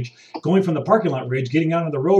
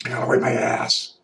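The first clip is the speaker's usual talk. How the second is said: panicked hoarder voice; 4 semitones lower than usual. Retold or imitated. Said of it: "there was paper towel rage".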